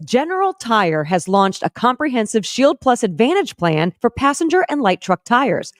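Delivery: smooth steady commercial read. Acted. Host reading the General Tire sponsor ad, steady ad read.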